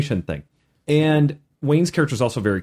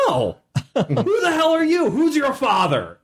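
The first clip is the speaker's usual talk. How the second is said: much higher, laughing tough-orc demand; 12 semitones higher than usual. Acted. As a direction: play a big tough orc, half laughing. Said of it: "they're like big tough orcs".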